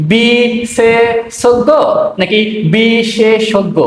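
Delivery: বিশেষজ্ঞ drawn out very slowly twice; slow contrast. Shown as a demonstration. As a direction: stretch both versions of বিশেষজ্ঞ. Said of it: "উচ্চারণ কি". (খুব ধীরে দুই উচ্চারণ)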